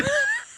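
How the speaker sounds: short high-pitched giggle; real high laugh; amused laugh. Real, not acted. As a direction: let a quick laugh out. Laughs at own answer.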